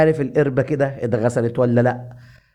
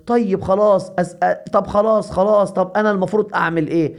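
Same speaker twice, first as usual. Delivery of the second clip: higher, flustered surrender; mildly exasperated, higher-pitched plea; flustered giving in; 4 semitones higher than usual. Acted. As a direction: give in hastily to stop the beating. Beaten Goha gives in.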